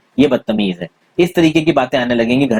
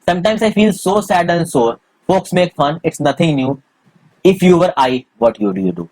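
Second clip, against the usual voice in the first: slow poem reading; 3 semitones higher, much slower than usual. Acted. Teacher reading a textbook poem to the class, very slow recital. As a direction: read the poem line by line, very slowly.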